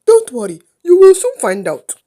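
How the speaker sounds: loud, gloating laugh into the words. A narrator's reading. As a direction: laugh knowingly, then taunt them loudly. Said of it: "The uncle laughs".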